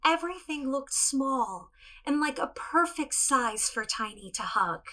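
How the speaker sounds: gentle storybook narration; storytelling. Acted. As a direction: tell it to children, unhurried.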